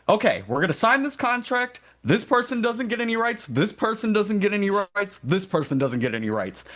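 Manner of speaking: Peter Griffin. Retold or imitated. Peter reads the founders' contract aloud, high cartoon voice. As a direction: pitch way up like the Family Guy dad reading out a contract. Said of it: "And Peter is like".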